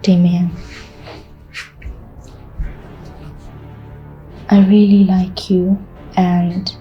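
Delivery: seductive. Acted. Seducing Damien, slow and soft.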